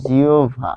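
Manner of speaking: জিওভা as "jiobha", falling at the end; joined pronunciation. Shown as a demonstration. Teacher repeats the word for learners, joined pronunciation. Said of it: "যেহেতু থেমে যাচ্ছি".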